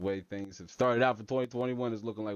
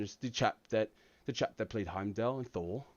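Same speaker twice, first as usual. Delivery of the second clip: lightly voiced London actor impression; Idris Elba; 2 semitones lower, 4 dB quieter than usual. Shown as a demonstration. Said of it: "do a good Idris Elba".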